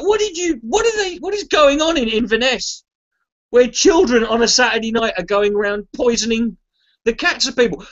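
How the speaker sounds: mock outrage at the whole town; incredulous outburst. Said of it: "I'm like".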